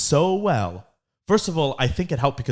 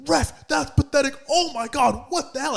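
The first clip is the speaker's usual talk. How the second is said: high, sneering heckler voice; mock the angry little guy; whiny mock heckler; 12 semitones higher than usual. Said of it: "he was like".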